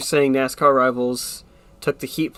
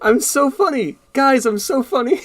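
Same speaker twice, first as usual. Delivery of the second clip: smug; 9 semitones higher than usual. Real, not acted. Laughing at own joke.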